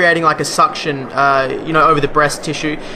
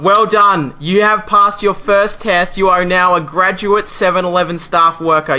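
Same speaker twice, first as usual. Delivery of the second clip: mock ceremony; 2 semitones higher, slower than usual. Mock graduation announcement.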